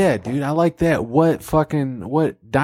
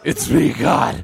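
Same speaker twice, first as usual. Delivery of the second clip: God voice; slower than usual. Acted. God reveals himself, shouting.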